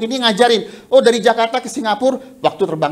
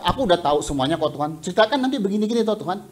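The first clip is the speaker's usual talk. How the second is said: fast, dismissive mock prayer; mock know-it-all prayer; 3 dB quieter, much faster than usual. Preacher mocking a believer who tells God he knows everything, fast and dismissive. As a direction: rattle it off like a know-it-all brushing God aside. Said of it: "untuk mengatakan kepada Tuhan".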